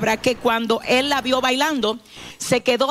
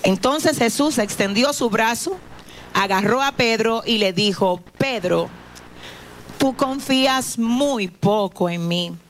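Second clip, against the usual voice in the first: scripture reading. Acted. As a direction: read the passage like a storyteller in church. Reads scripture aloud to congregation.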